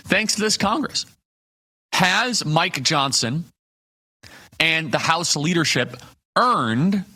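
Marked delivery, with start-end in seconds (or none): 1.9-7.1 slow, deliberate lead-up landing on "earned"; stress on earned. Shown as a demonstration. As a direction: lean on the word "earned". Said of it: "emphasis on the word earned".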